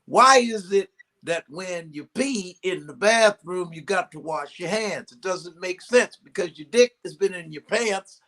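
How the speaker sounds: lightly voiced Cosby musing; Cosby impression. Comic telling a coworker his odd joke in a mild Cosby voice. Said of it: "He goes".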